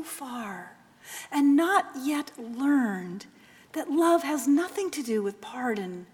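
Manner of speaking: mother lovingly forgiving her son; tender mother. Acted. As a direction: gently console him.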